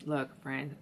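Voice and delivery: talking through a yawn; stretched out mid-yawn. Real, not acted. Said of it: "I'm sorry I had to yawn".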